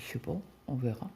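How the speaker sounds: fast unvoiced whisper; whispered reply. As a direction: whisper it quickly, off-hand. Réponse chuchotée du mari. (réponse chuchotée rapide)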